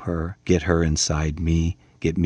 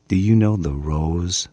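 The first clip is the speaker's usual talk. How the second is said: dream voice. Acted. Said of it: "in a dreamy, faraway, tiny little girlish voice".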